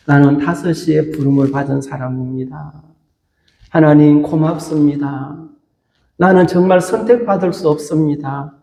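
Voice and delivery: understated, humbly thankful prayer; humble gratitude. Acted. Preacher modelling a five o'clock worker's thanks to God, humbly grateful. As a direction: pray it gently in a subdued, grateful voice.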